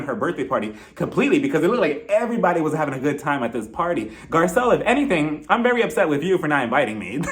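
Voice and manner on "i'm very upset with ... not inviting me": ordinary talk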